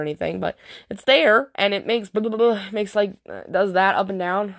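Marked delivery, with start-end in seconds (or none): 2.1-2.6 higher-pitched burbled "blah-blah-blah" noise; imitated up-and-down sound. Shown as a demonstration. Mom showing how it goes up and down, burbled sound effect. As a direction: burble a silly bobbing noise. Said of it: "that was my up and down sound".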